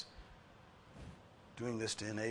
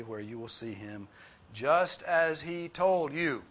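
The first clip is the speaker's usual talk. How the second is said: loud, raised reading of the angel; voicing the angel; 5 dB louder than usual. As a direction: proclaim the angel's message. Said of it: "Look again at what this angel says".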